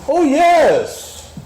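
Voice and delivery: high laughing Oh yes with real joy; laughing delight. Real, not acted. Joyful laugh about death's release.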